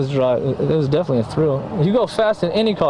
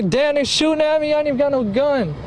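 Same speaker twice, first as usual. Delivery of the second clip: retold panic; 9 semitones higher than usual. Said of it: "I didn't know they was gonna shoot at me".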